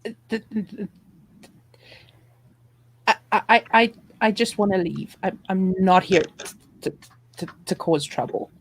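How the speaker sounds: halting plea, stuck on first sounds; nervous stammering. Acted. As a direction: stammer it out, placating a threat. Player pleads with threatening dogs.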